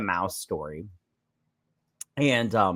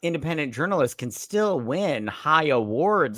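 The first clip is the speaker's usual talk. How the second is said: sarcastic retort; 2 semitones higher than usual. Retold or imitated. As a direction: correct him with teasing sass. Talking back to the host.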